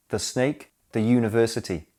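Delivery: "the" said "thuh" before "snake" and "university"; weak schwa in "the", even before "university"; "thuh" before consonant. Shown as a demonstration. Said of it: "Match the correct sound to the first letter".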